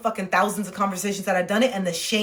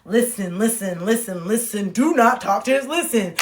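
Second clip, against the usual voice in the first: firmer mantra, building in volume; insistent self-coaching; slower than usual. Retold or imitated. Ordering herself not to talk, increasingly insistent inner voice. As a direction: press harder on each repeated order to yourself. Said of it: "I would be in my mind".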